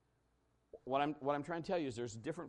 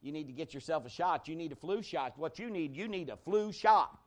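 insistent nagging, louder at the end; adamant coworker; 3 semitones higher, 5 dB louder than usual. Retold or imitated. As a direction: hammer home the flu shot like a pushy colleague. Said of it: "he was just adamant about that".

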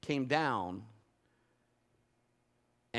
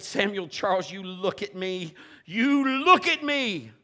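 louder and higher, slow final plea; firm command; 4 semitones higher, 6 dB louder than usual. Retold or imitated. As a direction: demand his son's eyes on you. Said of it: "And I said".

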